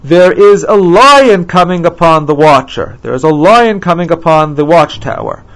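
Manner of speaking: lifted, declaimed proclamation; announcing. Acted. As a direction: announce it like a watchman's report.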